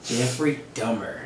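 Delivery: soft "Dahmer" said like DUH-mer or DOH-mer; playful alternate pronunciation. Shown as a demonstration. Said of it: "I like that. That, that flows".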